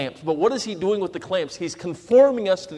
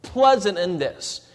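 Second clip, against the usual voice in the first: mock complaining. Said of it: "going through the difficulties".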